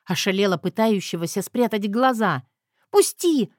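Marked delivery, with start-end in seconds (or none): 2.9-3.5 whimpered plea. A narrator's reading. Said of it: "моё хныканье".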